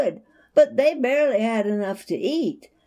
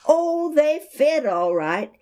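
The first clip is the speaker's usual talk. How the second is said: high, louder happy squeal; boy squealing over his new shoes; squealing with joy; 9 semitones higher, 5 dB louder than usual. Acted. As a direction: squeal it out, delighted. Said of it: "He squealed".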